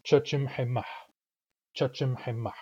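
Chachimhemah in four quick even syllables; short-syllable rhythm. Shown as a demonstration. Teacher putting sounds back in, four short beats. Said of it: "Now I put the sounds back in".

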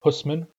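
husman said slowly and carefully for learners; Nuu-chah-nulth word. Shown as a demonstration. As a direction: pronounce husman clearly, syllable by syllable. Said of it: "the word for kelp is husman".

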